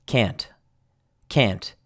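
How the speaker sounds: CAN'T with a released final T; T pronounced. Shown as a demonstration. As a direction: finish CAN'T on an audible "t". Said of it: "can't, with a T here, pronounced".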